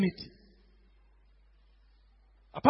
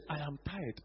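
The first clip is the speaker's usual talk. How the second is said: lower, softer, sleepy grumble; lazy Mister Ofori; 6 semitones lower, 4 dB quieter than usual. Retold or imitated. Preacher voicing Mister Ofori as a sleepy grump. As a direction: brush him off as if half-asleep. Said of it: "And Mister Ofori said".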